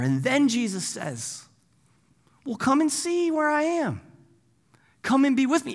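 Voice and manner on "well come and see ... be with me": high, gentle invitation; inviting. Acted. Jesus inviting the disciples to stay, inviting. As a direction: beckon them along in a lifted pitch.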